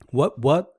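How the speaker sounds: WHAT, WHAT each swooping up; two rising tones. Shown as a demonstration. Teacher pairing second tone with itself, double rise. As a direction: ask WHAT twice with climbing pitch. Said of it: "find all the combinations".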